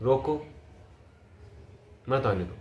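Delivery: soft, low, with a long pause after रोको; hushed order. Shown as a demonstration. Coach acts the line another way, hushed and low. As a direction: keep it down, order it quietly. Acted subdued order, emotion demo.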